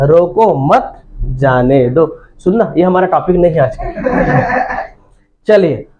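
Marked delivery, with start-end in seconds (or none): 0.1-2.0 slow, separated words. Shown as a demonstration. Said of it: "रोको का मतलब क्या हो रहा है?".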